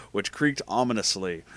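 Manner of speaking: ordinary delivery, nothing marked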